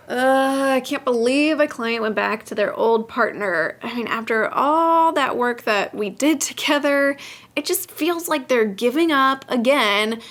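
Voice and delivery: hammed-up exasperated venting; mock frustrated rant about a client; bad acting. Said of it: "please excuse my acting skills".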